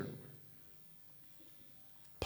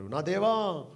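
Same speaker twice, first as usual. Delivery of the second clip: a raised, louder cry of My God; preacher voicing Jesus crying out from the cross, raised cry; 5 dB louder, much slower than usual. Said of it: "బిగ్గరగా కేకలు వేస్తున్నాడు".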